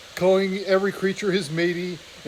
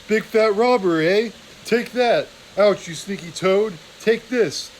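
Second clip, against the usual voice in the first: furious weasel brawl; 3 semitones higher, 3 dB louder than usual. Acted. Guard weasel hits back at his partner, angry brawling shout. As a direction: yell it while swinging a spear.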